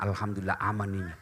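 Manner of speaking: sly husband. Acted. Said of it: "Kata suaminya".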